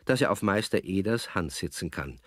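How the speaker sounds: usual speaking voice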